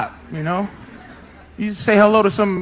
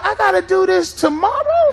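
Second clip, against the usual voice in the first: exasperated self-talk; 7 semitones higher than usual. Retold or imitated. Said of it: "I was saying to myself".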